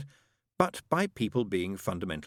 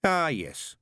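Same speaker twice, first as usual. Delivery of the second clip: doubtful; 7 semitones higher, 3 dB louder than usual. A narrator's reading. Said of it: "he said doubtfully".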